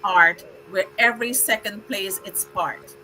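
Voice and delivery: measured, rhythmic poem reading; steady reading with pauses at line ends; poem recital. Acted. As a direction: recite it like a tribute poem to honoured guests. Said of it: "I prepared a very special poem for all of you".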